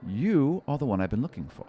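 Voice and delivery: a sly little seeker teasing his find; halfling seeker. Acted.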